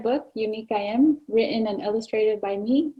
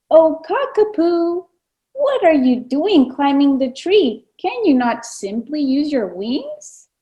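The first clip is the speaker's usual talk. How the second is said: little peka peka; 4 semitones higher, 4 dB louder than usual. Acted. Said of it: "asked the little peka peka".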